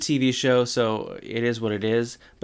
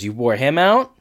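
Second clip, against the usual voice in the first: mock surprise with a rising end; incredulous question; 3 semitones higher, 5 dB louder than usual. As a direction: throw it back as a disbelieving question. Retold incredulous comeback to teasing.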